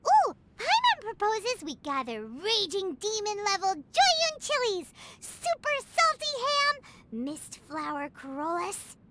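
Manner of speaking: slow, savouring each ingredient name; dreamy drawn-out musing. Acted. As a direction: stretch the words out like tasting them. Paimon dreams up hot pot ingredients.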